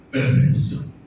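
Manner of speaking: persecución set apart and weighted; stressed word. Shown as a demonstration. Preacher to the church, stressing persecución. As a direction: lean on persecución after a pause. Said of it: "remarcar esa palabra".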